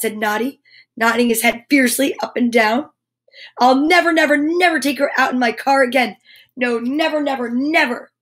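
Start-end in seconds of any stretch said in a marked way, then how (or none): 3.6-8.1 mildly indignant character voice; cross. Acted. Noddy refusing to take her out again, cross. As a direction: insist crossly, leaning on each repetition. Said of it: "He's quite cross".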